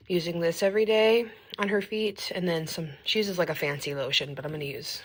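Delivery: speech around a retainer; wearing a retainer. Real, not acted. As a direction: retainer in the mouth. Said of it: "I have my retainer in".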